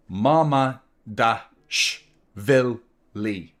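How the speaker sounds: "Mama dash vil Lee" slow, each syllable apart. Shown as a demonstration. Streamer mocking the keeper's long name, slow. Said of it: "Six syllables".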